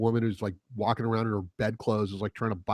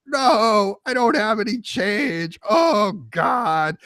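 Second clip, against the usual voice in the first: much higher, louder, slowed flustered protest; panicked man; 10 semitones higher, 6 dB louder, much slower than usual. Retold or imitated. Imitating the panicked customer refusing the woman, high and flustered. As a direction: play a cornered man in a panic. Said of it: "the guy panicked like a deer".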